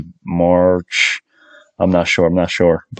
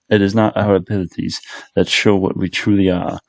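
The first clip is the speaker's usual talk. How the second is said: a hint of Dumbledore reciting wisdom; failed Dumbledore impression. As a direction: attempt a grave old headmaster, mostly in own voice. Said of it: "I can't do a Dumbledore accent".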